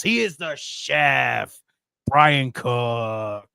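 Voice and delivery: loud, booming wrestling ring announcer; ring announcer intro. Acted. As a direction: bring him in like a title fight.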